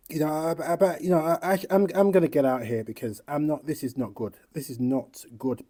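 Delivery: real deflated dismay. Real, not acted. Overwhelmed after the rant.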